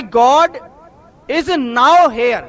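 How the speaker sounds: "God", a pause, then "is now here" very slowly; spaced-out sign reading. Shown as a demonstration. Reading a believer's doorplate aloud, slowly, with "now" and "here" distinct. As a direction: separate "now" from "here", stressing "now". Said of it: "यह लिखा था कि".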